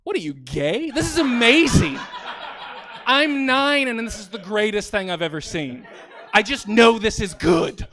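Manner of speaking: put-on loud, high, thrilled child; excited kid. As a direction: gush like a delighted nine-year-old. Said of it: "we were like".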